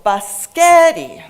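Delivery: "biscotti" as buh-SKET-ee, middle syllable loud and long; slow, loud "biscotti", hammering SKET; center syllable stressed. Shown as a demonstration. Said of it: "center syllable was pronounced louder, longer".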